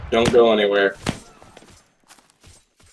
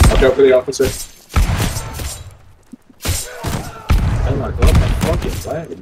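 cover me shout; 6 semitones higher than usual. Real, not acted. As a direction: shout a warning in alarm. Warning then flag lost.

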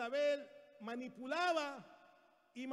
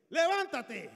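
loud, high order; raised-voice imperative; bossy wife's command; 5 semitones higher, 9 dB louder, slower than usual. Acted. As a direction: order him up sharply. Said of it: "La mujer le dijo así".

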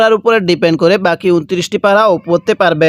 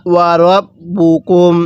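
slow, drawn-out tajweed chant; Quran recitation; much slower than usual. Shown as a demonstration. Teacher recites the verse for students, slow tajweed chant. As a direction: intone each syllable slowly like a reciter. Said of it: "কিভাবে পড়ব?".

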